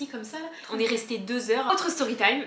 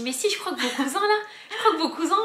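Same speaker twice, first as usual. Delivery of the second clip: laughing insistence; 7 semitones higher, 5 dB louder than usual. Retold or imitated. Insisting while laughing with kids.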